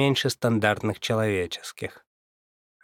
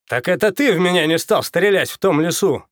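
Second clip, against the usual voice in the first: quickly; 6 semitones higher, 5 dB louder than usual. Acted. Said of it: "быстро произнёс игрок".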